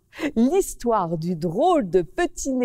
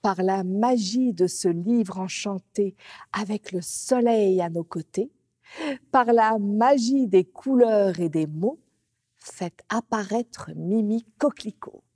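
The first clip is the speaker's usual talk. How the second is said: magic incantation. A narrator's reading. Magic incantation summoning character.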